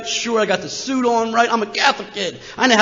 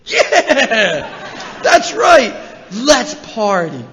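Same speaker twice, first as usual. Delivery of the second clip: put-on loud, laughing frat-boy whoop; John Belushi party yell; 3 dB louder, much slower than usual. Teen copies Belushi, whooping let's party loudly. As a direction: shout it like Belushi in Animal House. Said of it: "just like John Belushi in Animal House".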